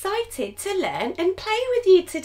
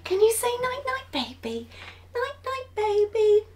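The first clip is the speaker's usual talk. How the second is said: softly spoken; 3 semitones higher, 5 dB quieter, faster than usual. Acted. Saying goodnight to sleeping baby.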